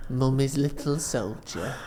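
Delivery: lightly voiced little child; toddler voice. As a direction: play a small kid asking mummy. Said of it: "like a toddler would say".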